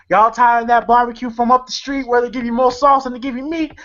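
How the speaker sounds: high-pitched hammy TV commercial pitch; Uncle Elroy. Retold or imitated. Film fan imitating Uncle Elroy's TV commercial, hammed-up sales pitch. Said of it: "Uncle Elroy in a T V commercial saying".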